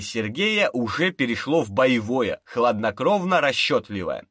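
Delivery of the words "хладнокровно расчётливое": usual speaking voice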